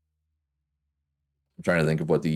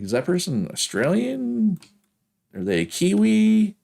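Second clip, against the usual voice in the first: confused wondering; 13 semitones higher, slower than usual. Retold or imitated. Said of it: "I hear it and I'm like".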